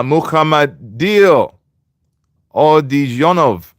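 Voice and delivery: Mukhamadil Odijonov sounded out slowly, piece by piece; careful name pronunciation. Real, not acted. Host reading a new viewer's name aloud, careful pronunciation. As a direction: read Mukhamadil Odijonov slowly, stretching the syllables. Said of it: "How did you pronounce that".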